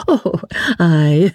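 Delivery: high, careless lady's voice; airy shrug. A narrator's reading. Lady answers about herself, high and dismissive. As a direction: toss it off like a shrug. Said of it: "with a shrug of the shoulders".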